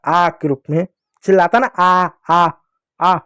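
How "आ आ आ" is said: mild imitation of a hurt man's "aah"; half-hearted demonstration cries of pain; mock pain cry. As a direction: act out a short "आ" of pain without really yelling. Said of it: "ऐसे चिल्लाता है".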